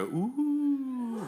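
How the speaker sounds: high, drawn-out teasing "ooh"; long swooping ooh for a smooch; kissing-reaction ooh. Shown as a demonstration. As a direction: coo high like an audience seeing a kiss. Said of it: "one where two characters are kissing".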